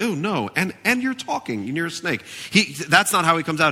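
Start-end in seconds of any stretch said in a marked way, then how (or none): 0.0-2.2 much higher, startled mock gasp; shocked Eve. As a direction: play Eve recoiling from the snake. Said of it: "Eve would be like".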